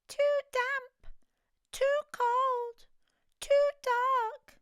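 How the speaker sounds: high, squeaky little mouse voice. Acted. A tiny mouse complaining about the cave, high and squeaky. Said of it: "Mouse squeaks".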